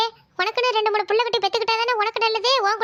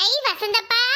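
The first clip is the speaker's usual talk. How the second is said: excited call; slower than usual. Acted. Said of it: "பேர் சொல்லி கூப்பிடக்கூடாதுன்னு".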